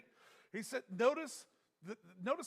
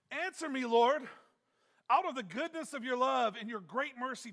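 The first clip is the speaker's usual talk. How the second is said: raised, pleading prayer to the Lord; crying out to God; 3 semitones higher, 3 dB louder than usual. Retold or imitated. Preacher reading David's psalm to the congregation, pleading cry. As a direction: beg the Lord for rescue, lifted up. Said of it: "he's crying out".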